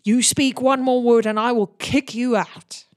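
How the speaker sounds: a touch of orc menace; threatening orc. Acted. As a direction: warn the lord off, lightly voiced. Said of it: "and says".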